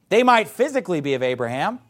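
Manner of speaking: emphasize the word "might" as a concession; "might" picked out with emphasis; stress on MIGHT. Real, not acted. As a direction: lean on "might". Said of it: "Emphasis on the word might".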